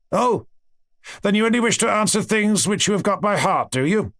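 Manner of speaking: a touch of scornful disbelief; sneering professor. Acted. Professor scoffing at the unprepared student, mock sarcastic.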